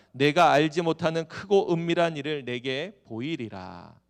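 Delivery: loud, emphatic verse quotation; scripture reading. Acted. Preacher repeating God's answer for the congregation, loud scripture proclamation. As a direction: proclaim the promise to the hall.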